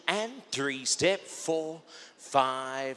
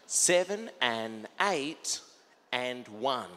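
calling dance counts; much slower than usual. Shown as a demonstration. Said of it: "calling counts".

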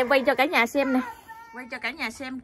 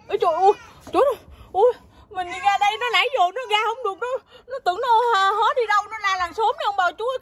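exclaiming; 7 semitones higher, 8 dB louder than usual. Real, not acted. Mother exclaims to viewers about her wailing child, exclaiming. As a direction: cry out in amused alarm, pitched up. Finds child crying behind shut door.

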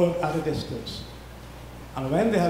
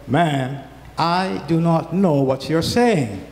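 loud, slow, insistent "I do not know him"; loud denial; 5 dB louder, slower than usual. Acted. Peter denies knowing Jesus, loud and emphatic. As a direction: push the woman away with a loud denial.

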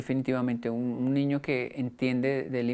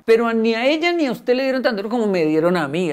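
raised, louder indignant mother; indignant retort; 7 semitones higher, 7 dB louder than usual. Retold or imitated. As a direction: push back hard, voice up. Mother retorts indignantly in retold quarrel. (réplica indignada, más alta y fuerte)

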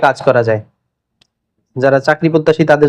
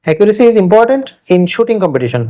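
slow dictation; 3 semitones higher, much slower than usual. Shown as a demonstration. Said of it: "example sentence".

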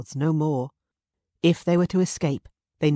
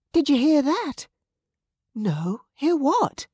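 alarmed; 11 semitones higher, 4 dB louder, slower than usual. Acted. Frightened women.

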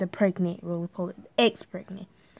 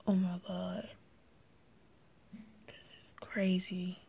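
retold amazement; 4 semitones lower, 12 dB quieter than usual. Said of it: "I was like".

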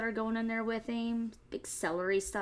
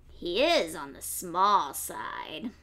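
fox musing; 4 semitones lower, slower than usual. Acted. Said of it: "Fox said to himself".

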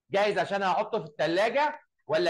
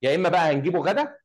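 raised voice, pushing it out; louder voice; 5 dB louder, faster than usual. Shown as a demonstration. Teacher urges the class to speak up, loud. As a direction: project it so the back row hears. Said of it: "علي صوتك كده".

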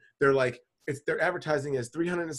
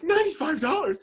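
surprised at the price; 6 semitones higher than usual. Retold or imitated. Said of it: "And I'm like".

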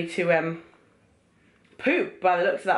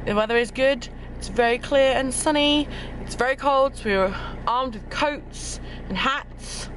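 chewing while talking; 6 semitones higher than usual. Real, not acted. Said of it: "Excuse the chewing gum".

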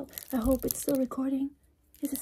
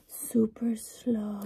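slow, drawn-out whisper; super slow; 3 semitones lower, much slower than usual. Acted. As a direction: stretch each word out slowly. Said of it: "Just kidding".

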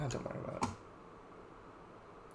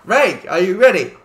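calling out; 3 semitones higher, 9 dB louder than usual. Real, not acted. Calling teammates before start.

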